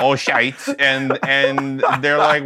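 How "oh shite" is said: laughing mock German. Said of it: "in German".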